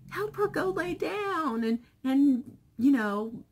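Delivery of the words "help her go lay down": high, louder, slow mock grandma alarm; imitating grandma, higher and louder; grandma's reaction. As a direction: pitch up as a concerned old grandmother. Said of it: "And she goes".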